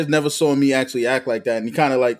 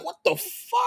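mock shocked reaction; 7 dB quieter, much slower than usual. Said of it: "we all like".

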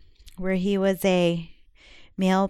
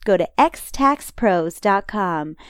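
slow; 4 dB louder, slower than usual. Shown as a demonstration. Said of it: "repeated phone number".

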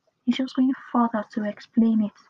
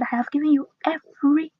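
EVERY raised as the contrasting word; stress on EVERY; 4 semitones higher, faster than usual. Shown as a demonstration. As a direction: correct them by leaning hard on "every". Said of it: "the word of God specifically said".

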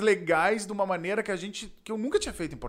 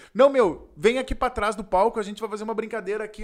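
higher, louder showman call; mock host; 4 semitones higher, 4 dB louder than usual. Stage host inviting him behind the stage, high cheerful coaxing. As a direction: lure him backstage cheerfully.

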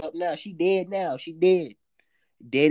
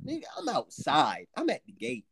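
ordinary talk, nothing marked

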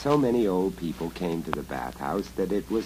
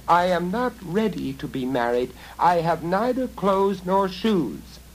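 put-on frightened girl calling back; 10 semitones higher, 4 dB louder than usual. A narrator's reading. Girl stalling the goblin at the door, raised call. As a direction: call out boldly to buy time.

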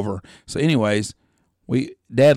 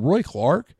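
incredulous disbelief; 3 semitones higher than usual. Retold or imitated. Incredulous reply to dad.

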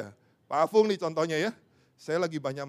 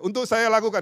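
louder call-and-response, saya stressed; congregation repeat aloud; 6 semitones higher, 8 dB louder than usual. Shown as a demonstration. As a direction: lead them to say "saya" strongly.

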